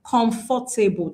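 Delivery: "comfortable" in four syllables, com-for-ta-ble; Nigerian pronunciation of comfortable. Shown as a demonstration. Teacher showing Nigerians' common error, "comfortable" as four syllables. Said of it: "as Nigerians, we pronounce this word as".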